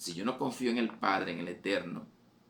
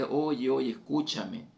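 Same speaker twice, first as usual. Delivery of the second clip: higher, louder call for attention; 5 semitones higher, 4 dB louder, slower than usual. Retold or imitated. Preacher voicing the Lord's loud call. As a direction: cry out to be heard. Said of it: "O sea, es a grito".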